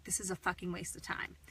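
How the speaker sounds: quiet fed-up whisper to yourself; whispered frustration. Retold or imitated. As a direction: breathe it out in annoyance. Frustrated inner thought, whispered.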